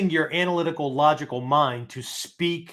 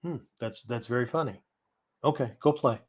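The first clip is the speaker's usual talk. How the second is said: unmoved grandpa; 4 dB quieter than usual. Retold or imitated. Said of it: "he tells me this joke and I go".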